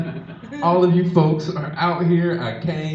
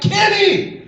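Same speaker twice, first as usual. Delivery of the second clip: high, loud, drawn-out outrage; hammed-up yell, each "ever" hit hard; mock furious scolding; 7 semitones higher, 7 dB louder, slower than usual. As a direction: imitate an enraged partner bursting in. Acts out partner storming in angry.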